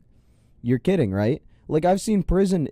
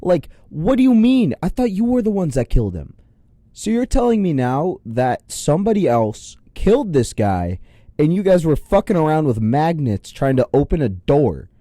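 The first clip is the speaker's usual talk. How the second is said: higher, animated incredulous rant; exasperated disbelief; 4 semitones higher than usual. Real, not acted. Taxpayer reacting to agents' botched door story, exasperated. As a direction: push the pitch up, baffled and indignant.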